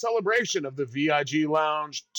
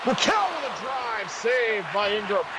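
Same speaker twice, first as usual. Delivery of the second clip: quick lift of hockey-commentary excitement; excited play-by-play; 3 semitones higher than usual. Real, not acted. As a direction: pitch jumps on the drive, then settles. Live call of a scoring chance.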